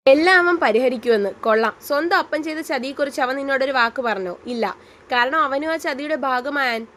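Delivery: loud, furious sarcastic roar; furious shout. Acted. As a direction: blast her with contempt. Alex roaring in a quarrel. (കോപത്തോടെ അലറി)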